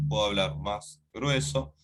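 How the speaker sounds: lightly put-on thicker voice; a slight attempt at a heavier voice. Shown as a demonstration. Teacher showing students a voice change, mildly thickened voice. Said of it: "yo puedo cambiar la voz".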